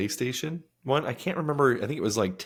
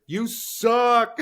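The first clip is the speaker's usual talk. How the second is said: high loud taunting game voice; 13 semitones higher, 5 dB louder than usual. Retold or imitated. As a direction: yell it like a cheesy video game taunt. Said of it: "you'd hear".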